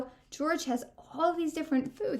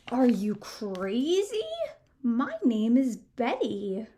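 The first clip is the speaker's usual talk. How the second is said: monster voice. Acted. Monster voice in story.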